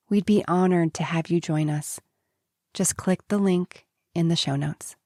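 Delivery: measured invitation to a course; inviting podcast ad read; scripted promo read. Acted. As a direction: read the announcement in even, rounded phrases.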